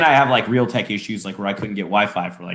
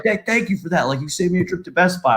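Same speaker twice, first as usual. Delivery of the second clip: higher-pitched eager thanks; happy, grateful dad; 6 semitones higher than usual. Retold or imitated. Dad thanking his child for tech help, happy. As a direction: imitate a delighted father gushing. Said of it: "like, happy as a clam".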